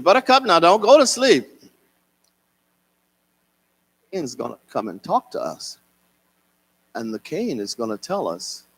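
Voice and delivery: put-on grandfather urging the boy proudly; grandfather's voice.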